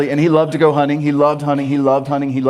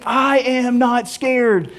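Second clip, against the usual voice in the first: every word of "I am not scared" drawn out slow and separate; spelled out slowly; 5 semitones higher, much slower than usual. Shown as a demonstration. Preacher showing the full phrase before the slang, slow. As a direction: lay out all four words deliberately. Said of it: "rolled it into about three syllables".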